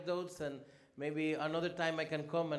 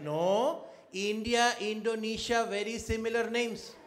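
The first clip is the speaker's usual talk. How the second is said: higher and louder mocking list; sarcastic punchline; 6 semitones higher, 6 dB louder, slower than usual. Ambassador mocks the official's similar names excuse, loud sarcastic emphasis. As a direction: drive the joke home with mock emphasis.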